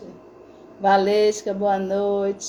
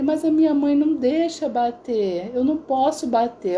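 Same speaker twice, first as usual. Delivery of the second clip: higher-pitched retold child's protest; a hint of a pleading kid, pitched up; 5 semitones higher than usual. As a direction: lightly voice a boy objecting. Son protests to the relative.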